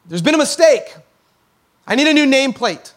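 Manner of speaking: lightly voiced mayor taking issue; mock stern complaint. Mayor buzzes his assistant about the nameplate, mock stern.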